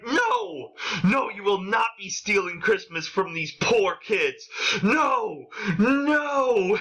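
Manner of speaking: high-pitched pretend outrage; hammed-up heroic objection; mock shout. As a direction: protest melodramatically, pitch leaping up on each no. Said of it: "and I shout".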